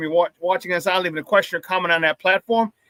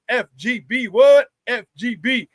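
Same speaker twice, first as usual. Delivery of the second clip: call and response; 2 semitones higher, slower than usual. Real, not acted. Host chanting the show slogan to the chat, call and response. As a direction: hype the crowd with a chant.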